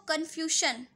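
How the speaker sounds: कन्फ्यूजन said with a 'sh' sound in the last syllable; mispronounced confusion. Shown as a demonstration. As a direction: say कन्फ्यूजन the common wrong way. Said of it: "तो ऐसे नहीं बोलते इसको".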